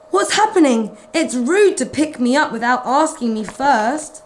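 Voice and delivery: a lightly voiced, offended cat; huffy little cat protesting; Mog's indignant thought. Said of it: "Mog thought".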